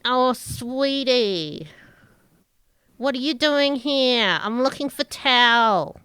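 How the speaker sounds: lightly voiced flirty woman, slow sweetie; a hint of a coy flirt; flirty Orla. GM plays Orla greeting the party, lightly coy.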